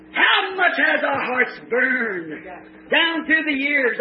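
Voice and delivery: fervent preaching. Real, not acted. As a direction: preach it to a responsive congregation.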